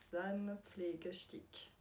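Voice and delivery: very slow, laboured German accent; attempted German accent. Real, not acted. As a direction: sound it out in German, piece by piece. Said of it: "avec mon super accent allemand".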